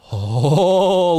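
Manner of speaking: high, shocked oh like a stunned arena; mock crowd reacting to a cruel line; crowd gasp. Host imitates stunned crowd gasping at Christian's taunt. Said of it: "And the crowd just goes".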